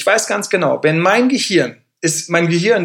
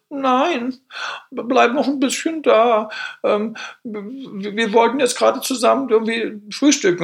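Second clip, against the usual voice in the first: higher, slower coaxing plea to stay; pleading partner; 7 semitones higher than usual. Retold or imitated. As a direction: play the partner begging him to skip jogging. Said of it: "Und sie so". (höhere, langsame, bittende Partnerinnenstimme)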